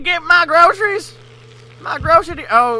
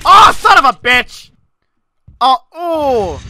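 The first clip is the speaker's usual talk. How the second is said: angry curse; 5 dB louder than usual. Real, not acted. Gamer fails again.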